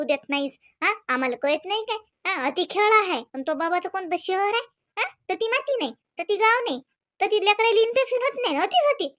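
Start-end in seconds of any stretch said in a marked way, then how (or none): 5.3-9.1 angry rant. Acted. Mother-in-law scolding about village.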